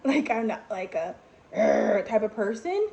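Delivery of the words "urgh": short rough "urgh" growl; mock growl. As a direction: growl like the confrontational type. Mimics an aggressive type of person.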